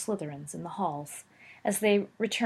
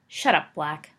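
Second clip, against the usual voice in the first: blazing; 3 semitones lower, 4 dB louder than usual. Acted. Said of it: "Potter blazed".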